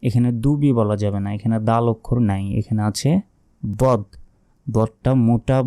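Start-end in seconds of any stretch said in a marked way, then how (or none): 3.6-5.6 বদ said thick and heavy from the throat; heavy pronunciation. Shown as a demonstration. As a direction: give বদ a full, heavy sound. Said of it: "মোটাভাবে উচ্চারণ হবে".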